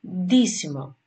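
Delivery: ντύσιμο with a hard initial d; pronunciation example. Shown as a demonstration. Teacher giving an example word, demonstrating d in ντύσιμο. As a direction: model the d sound opening ντύσιμο, set apart. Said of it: "όπως είναι η λέξη".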